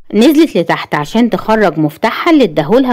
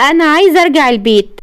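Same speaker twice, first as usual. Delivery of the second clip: higher-pitched plaintive voice; plaintive plea; 7 semitones higher than usual. A narrator's reading. Patient pleading with husband to go home, plaintive. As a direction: plead in a high, small voice.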